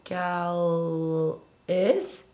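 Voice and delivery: laughing through the words. Real, not acted. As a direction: giggle while saying it. Laughing at own guess.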